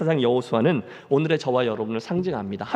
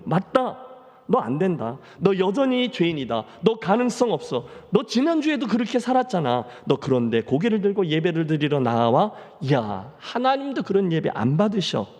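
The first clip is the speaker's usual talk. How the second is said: taunting Satan voice. Acted.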